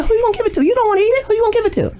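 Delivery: a lightly voiced man teasing her; his voice. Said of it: "And he said".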